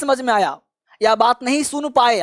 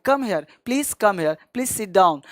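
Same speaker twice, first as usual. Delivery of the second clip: slow model phrase; 2 semitones lower, much slower than usual. Shown as a demonstration. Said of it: "आपको जो आता है".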